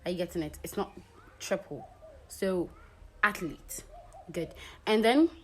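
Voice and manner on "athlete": athlete said as ATH-leet, with two syllables; correct athlete. Shown as a demonstration. Teacher giving students the correct two-syllable athlete. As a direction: say athlete the right way, nothing added. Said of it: "Ath and leet".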